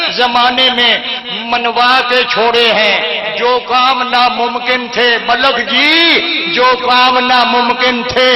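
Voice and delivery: chanted majlis verse; poetry recital. Acted. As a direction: recite the rubai to the gathering. Recites praise couplets.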